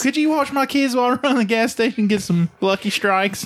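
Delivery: mock favor request.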